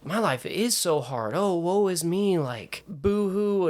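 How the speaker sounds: slow, drawn-out hammed-up woe; mock self-pity. Actor mocking his younger self's negativity, mock self-pity. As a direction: wail it in jest, rising high.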